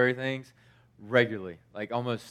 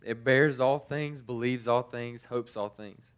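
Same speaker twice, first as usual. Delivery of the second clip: slow, measured reading of the verse; scripture recitation. Acted. Preacher reading First Corinthians to his congregation, slow and measured. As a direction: let each line land slowly, like a blessing.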